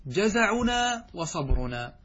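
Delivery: slow, deliberate reading; measured dictation pace; slow model sentence. Shown as a demonstration. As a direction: set the model sentence out slowly for students. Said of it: "فيصبح المعنى هكذا".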